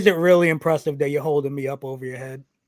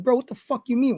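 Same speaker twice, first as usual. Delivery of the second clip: retold exasperation; 9 semitones higher than usual. Wrestler retelling his argument over a botched spot, exasperated. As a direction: throw the question back, pitched up in disbelief.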